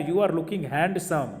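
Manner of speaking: said slowly with handsome pronounced with a D; you are looking handsome, slowly, "hand-sum" with the D sounded; slow demo. Shown as a demonstration. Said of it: "फिर मैं sentence बोल रहा हूँ".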